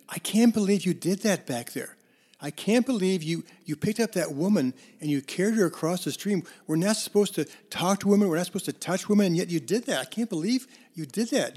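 a hint of an appalled monk scolding his friend; indignant monk. Monk scolds his companion for carrying the woman, mildly indignant. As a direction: raise the pitch, a shocked and scolding disbelief.

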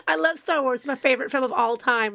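a hammed-up teen trying to impress; gushing teenager. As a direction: overdo the enthusiasm like an eager eighteen-year-old. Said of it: "that's so typical eighteen-year-old".

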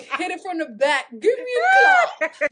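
slow mock German accent; hammy German-accented line. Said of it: "German accent".

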